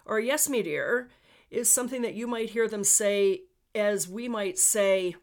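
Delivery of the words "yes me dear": slightly raised amateur Newfoundland accent; Newfie accent. Shown as a demonstration. Podcaster offering an alternative local phrase, attempted Newfie accent. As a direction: try out a Newfie term of agreement. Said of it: "trying to do a Newfie accent".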